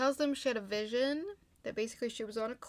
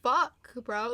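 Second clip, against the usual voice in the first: retold anger; 3 semitones higher, 9 dB louder, slower than usual. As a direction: act out his exasperated disbelief. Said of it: "He starts to get mad".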